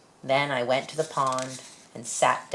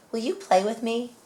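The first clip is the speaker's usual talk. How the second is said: hopeful asking; 8 semitones higher than usual. Acted. Child asks animal to play.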